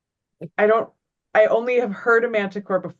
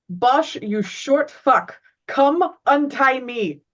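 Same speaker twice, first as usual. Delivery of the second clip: calling out; 5 semitones higher, slower than usual. Acted. Tied-up character calls to friend.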